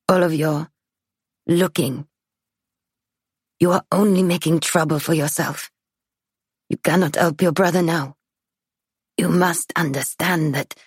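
lightly voiced frail old woman. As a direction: warn gently in a frail old voice. Old woman warns narrator.

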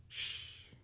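soft whispered hush; whispered shush. A narrator's reading. Girl at the window silencing Laurel, whispering. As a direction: hush them under your breath. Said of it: "she whispered without turning around".

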